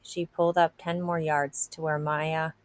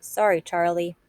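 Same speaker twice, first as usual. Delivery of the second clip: mild yell; 4 dB louder than usual. Acted. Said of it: "yelled out".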